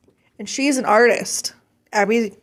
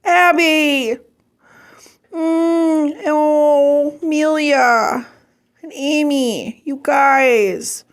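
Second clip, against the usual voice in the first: touched, higher-pitched and drawn out; holding back tears; 4 semitones higher, much slower than usual. Real, not acted. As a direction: hold off crying, moved by friends' kindness. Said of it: "no, I'm not gonna cry on here".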